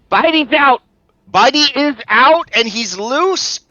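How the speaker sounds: high, loud alarm shouted to someone nearby. Acted. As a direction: yell it out, drawing out the last words. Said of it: "she shouts".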